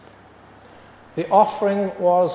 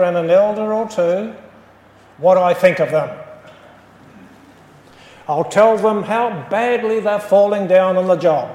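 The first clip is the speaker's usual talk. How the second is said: mildly indignant, firm and emphatic; a touch of anger, telling them off; understated angry vow to complain; 4 dB louder than usual. Acted. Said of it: "he was very angry".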